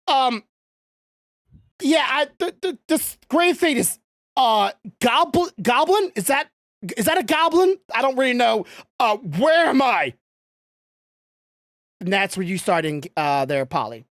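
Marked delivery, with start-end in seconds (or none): 0.1-10.1 confused Kane. Acted. GM voices lost confused Kane.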